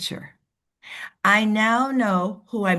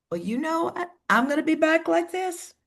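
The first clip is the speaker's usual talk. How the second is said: higher and offhand, lightly mocking; leaning-back attitude; 7 semitones higher than usual. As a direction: imitate someone holding back, a bit aloof. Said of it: "if they're like".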